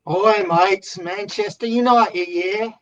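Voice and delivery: cheery football-fan Brit greeting; British accent. Acted. Guest greeting the host in a mock British accent. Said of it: "in my British voice".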